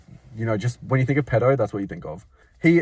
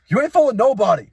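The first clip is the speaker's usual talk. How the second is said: louder sassy jab; sassy call-out; 9 semitones higher, 7 dB louder than usual. Retold or imitated. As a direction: call him out with sass. Calling out customer.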